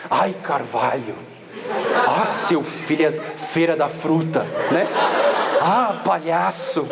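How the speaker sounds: slow, low, laughing near-curses; swallowed swear swaps. Retold or imitated. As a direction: bite back the curse and swap it, chuckling. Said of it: "você começa a querer trocar as palavras".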